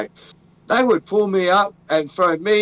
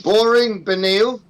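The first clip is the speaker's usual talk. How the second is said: announcer intro. Acted. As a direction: introduce the fighters like a ring announcer. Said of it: "That's how I'm gonna bring it in".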